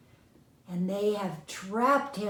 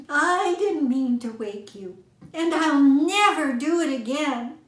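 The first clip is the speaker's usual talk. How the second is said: higher, louder eager plea; a lightly voiced begging mouse; pleading mouse; 7 semitones higher, 6 dB louder than usual. A narrator's reading. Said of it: "begged Fuzzy Tail again".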